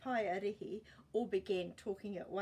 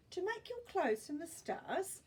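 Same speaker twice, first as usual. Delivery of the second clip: exclaiming; 10 semitones higher, 3 dB louder than usual. Acted. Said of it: "exclaimed Sam".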